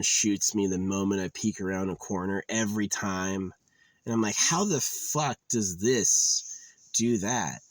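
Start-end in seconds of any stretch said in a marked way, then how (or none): 4.4-7.6 exasperated disbelief. Retold or imitated. Player shot by a zombie, exasperated disbelief. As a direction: draw the question out in mock outrage.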